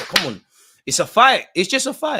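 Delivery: excited shout. Real, not acted. Rallying players during scuffle.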